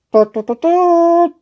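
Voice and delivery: high, slow announcing herald; herald's cry. Acted. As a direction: trumpet the prince's arrival. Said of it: "he cried".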